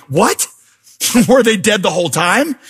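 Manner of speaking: high, incredulous What with a laugh; baffled disbelief. Retold or imitated. Fan baffled by the ending, asking with a laughing disbelief. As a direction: react like the finale made no sense. Reaction to the finale.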